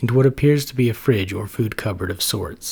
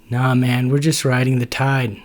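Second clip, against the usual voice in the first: relaxed surfer cool, a touch louder; cool and laid-back; 3 semitones higher, 5 dB louder than usual. Acted. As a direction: Natasha playing it cool. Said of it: "Natasha replies coolly".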